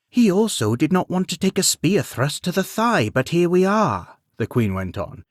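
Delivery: queen. Acted. Queen counters Beowulf.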